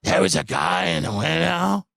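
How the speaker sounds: slow, drawn-out dramatic line; mocking the friend's put-on voice; mock affectation. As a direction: ham up the spooky pause. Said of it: "putting on an affectation for".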